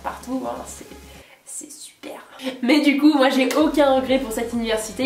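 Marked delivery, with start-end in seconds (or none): 0.7-2.2 murmure sans voix, en aparté; glisse-le tout bas comme une confidence moqueuse; chuchoté ironique. Real, not acted. Aparté ironique sur l'Auvergne. (chuchotement ironique en aparté)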